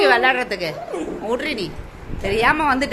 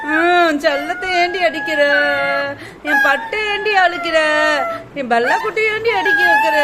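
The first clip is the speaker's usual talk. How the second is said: doting protest. Pretend. Standing up for a darling being hit, doting protest. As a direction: protest as the darling's defender, pitch rising. Scolding someone for hitting the darling.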